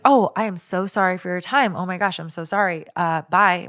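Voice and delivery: effusive phone apology, imitated; really nice. Caller excuses herself after a wrong number, imitated as really nice. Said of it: "really nice".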